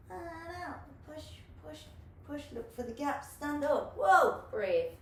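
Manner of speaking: rising calls of push, then a loud whoa; coaching cues. Shown as a demonstration. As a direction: coach the move step by step, building up. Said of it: "just pushing up".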